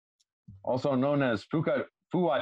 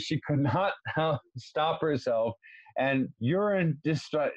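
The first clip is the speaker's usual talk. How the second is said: stifled giggles. Real, not acted. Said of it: "I have to pause".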